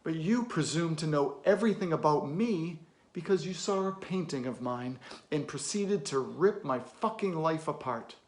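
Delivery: controlled anger, punched key words; indignant. Acted. Confronting a kid who judged his painting, indignant. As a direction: throw the accusation at them, holding back a shout. Rebukes kid for judging him.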